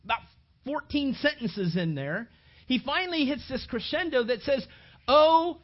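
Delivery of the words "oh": loud outcry; anguished cry. Acted. Paul crying out in despair. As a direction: burst out in anguish.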